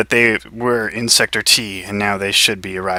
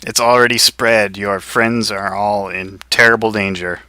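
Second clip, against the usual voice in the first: flat synthetic computer voice; lightly voiced robot. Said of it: "says the robot voice".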